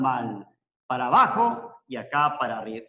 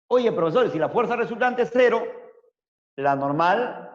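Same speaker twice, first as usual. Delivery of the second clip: student asking; 5 semitones higher, 3 dB louder than usual. Retold or imitated. Student voiced asking teacher.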